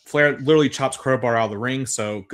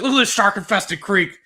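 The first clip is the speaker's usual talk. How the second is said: higher and louder, a hammed-up Russo line; lightly voiced Russo, higher and louder; mock Russo; 8 semitones higher, 6 dB louder than usual. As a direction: ham up Russo's proud tour-guide boast. Quoting Russo, laughing at it.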